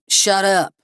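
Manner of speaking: angry gunman yelling; yelled. A narrator's reading. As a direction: cut him off with a shout. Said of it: "the first man yelled".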